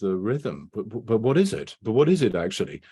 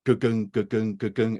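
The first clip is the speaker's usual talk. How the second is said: imitated heartbeat. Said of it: "is how it sounds".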